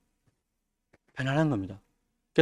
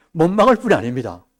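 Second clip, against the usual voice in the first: emphatic sermon line; 5 dB louder than usual. Acted. Preacher emphasizing point.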